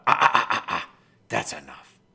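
loud, sharp ah ah ah to stop a pushy puppy; sharp correction. Shown as a demonstration. Trainer stopping a puppy from testing him, loud sharp warning. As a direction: bark a quick no at the dog. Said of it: "I'll give him a".

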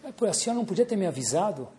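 fast bickering. Retold or imitated. Quick exchange caller and agent.

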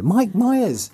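Myers pitched high and loud with a falling end; high mock reveal. Shown as a demonstration. Reveals the surprise actor to co-hosts, high squeal.

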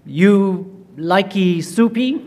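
slow, patronising mock pidgin; drawn-out mock pidgin to a dinner guest; condescending pidgin English. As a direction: talk down to him slowly like he can't speak English. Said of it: "and goes".

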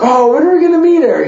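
high, quick mock-excited question; imitating eager mom. Mom asking her son to meet the new girlfriend, eager imitation. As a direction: gush it like a keen mother.

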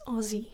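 Aussie said with a buzzing Z, "Ozzie"; Aussie as Australians say it, "Ozzie"; Z sound. Shown as a demonstration. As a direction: pronounce the S's in Aussie as Z. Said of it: "how to pronounce Aussie".

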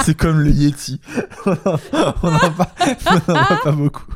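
giggling through the words; can't stop laughing while repeating. Real, not acted. Mocking partner's joke, laughing.

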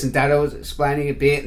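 ordinary delivery

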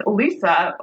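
puzzled question rising high at the end; a little confused. Retold or imitated. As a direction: question a friend in mild disbelief. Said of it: "I was a little confused".

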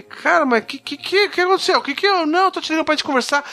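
high-pitched startled reply; caught off guard. Retold or imitated. Answering a stranger's unexpected call, high flustered voice. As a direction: retell your own flustered confusion. Retold exchange with the insistent caller.

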